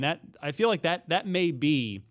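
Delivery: ordinary talk, nothing marked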